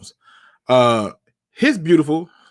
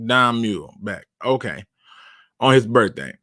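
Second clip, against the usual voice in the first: usual speaking voice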